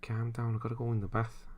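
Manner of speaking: "Calm down, I gotta go in the bath" in a mock Scouse accent; a light imitation of a Scouser. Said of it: "Gotta see how Scousers say bath".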